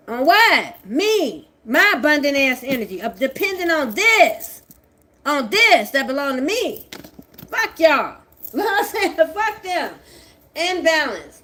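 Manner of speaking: high, loud strange voice, stretched out; reading the cards to her enemies in a strange voice; odd put-on voice. Real, not acted. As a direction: taunt in a weird voice. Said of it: "why am I talking like that?".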